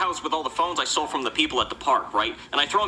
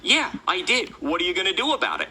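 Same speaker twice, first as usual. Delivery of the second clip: raised-pitch, cocky challenge; mildly heated comeback; defiant retort; 4 semitones higher than usual. Retold or imitated. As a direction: act out daring someone to object. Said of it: "And I'm like".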